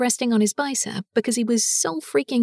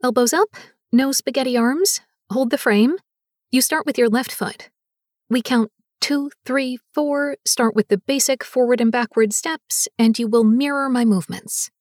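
dance teacher commands; 4 dB louder than usual. Acted.

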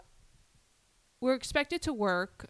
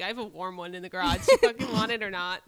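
mock yell; 7 dB louder than usual. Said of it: "I'm like".

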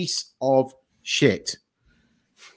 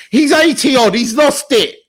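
exasperated rant; 11 semitones higher, 7 dB louder than usual. Real, not acted. Ranting about the aging actor.

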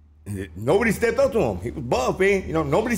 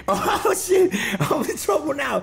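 mock alarm; 10 semitones higher, slower than usual. Kid realizing he's caught.

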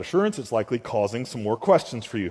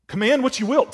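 higher and ringing, preached out; prayer turned to a pulpit declaration; emphatic repeat; 10 semitones higher, 5 dB louder, faster than usual. Acted. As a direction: fling the line out to the room. Repeats the prayer words, lifted.

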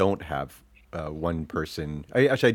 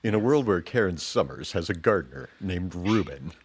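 lightly voiced movie-trailer narrator. Host jokes about guest's gardener, light trailer voice. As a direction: open it like a mock film trailer. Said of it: "the trailer voice".

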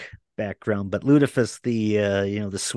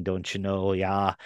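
lightly imitated Minnesotan accent, lower and softer; Minnesota accent; 4 semitones lower, 4 dB quieter than usual. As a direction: toss in a Minnesota accent aside. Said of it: "doing the Minnesota accent thing".

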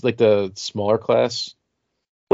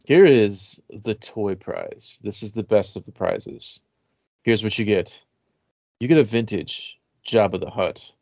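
sultry narrator. Pretend. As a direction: tease it like a sexy read. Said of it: "Read it in a sexy voice".

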